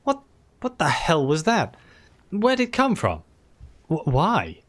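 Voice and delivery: ashamed irritated outburst; bursts out. A narrator's reading. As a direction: blurt it in shame and irritation. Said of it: "he bursts out".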